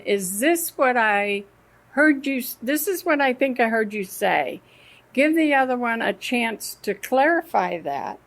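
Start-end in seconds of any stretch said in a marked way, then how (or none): 0.1-4.6 calm clarifying. Shown as a demonstration. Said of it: "if you ask them".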